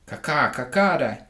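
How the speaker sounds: a touch of hen cackle; cackling hens. Acted. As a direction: cluck it out like smug hens. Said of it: "cried the ca-, hens".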